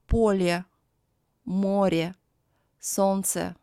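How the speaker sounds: "поле, море, солнце" each ending in a clear eh; final Е kept. Shown as a demonstration. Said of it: "it is read as Е".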